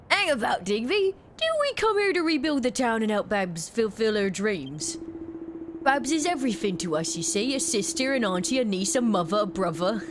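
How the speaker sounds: lightly voiced rough Cockney miner, wistful; a hint of a homesick London digger. NPC miner dialogue read aloud.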